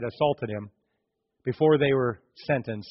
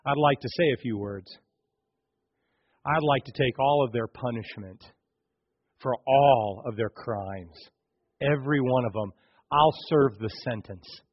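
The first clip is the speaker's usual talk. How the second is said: tender plea; 3 semitones lower than usual. Acted. Jesus asking the judge to take the punishment, tender. Jesus voiced gently pleading.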